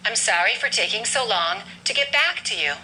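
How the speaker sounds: "back" prominent, "to you" reduced; stress on back. Shown as a demonstration. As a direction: hit "back" and let "to you" fall away. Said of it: "we're gonna stress the word back".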